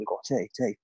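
a quiet, mock-conspiratorial aside; hushed tip-off. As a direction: mutter it like a secret tip-off. The speaker's sneaky tip-off to teammate.

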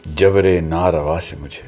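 slow, measured Urdu verse reading; ghazal recitation. Real, not acted. Poet's son reciting his father's ghazal to friends, measured recitation. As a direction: recite poetry with weighted pauses.

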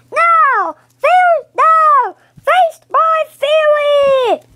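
slow, loud villain roar; sputtering foiled villain. Acted. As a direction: roar defiance at the heroes. Villain's last stand.

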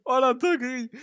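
loud, thrilled cry of delight; excited shout. Real, not acted. Streamer opening a gift Pokémon, excited loud cry. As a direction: shout it out, can't believe the luck.

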